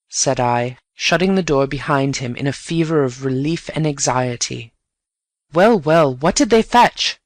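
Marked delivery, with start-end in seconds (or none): 5.5-7.2 eager excitement. Acted. Bunny eager for the news.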